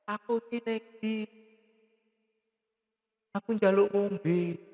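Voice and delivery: slow, drawn-out words with long gaps; revived woman. Retold or imitated. Revived woman asks for a drink, slow and halting. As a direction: voice someone slowly coming back to life.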